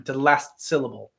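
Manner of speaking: "last syllable" with the T of last lightly tapped, brief natural break; light final T. Shown as a demonstration. Acting coach showing the natural pause, light T in "last". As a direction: sound the T in "last", then "syllable". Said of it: "gives you a last syllable".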